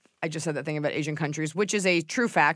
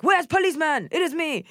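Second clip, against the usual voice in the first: high, playful retold call; high mock call; 10 semitones higher than usual. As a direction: pipe it up high, imitating a call. Retold playful exchange with Korean doctor.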